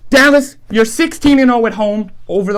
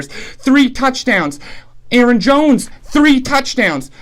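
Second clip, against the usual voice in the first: Three dragged out slowly, falling; slow emphatic count; slower than usual. Real, not acted. Vlogger counting the Packers' touchdowns, slow emphatic stress. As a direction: lean hard on three.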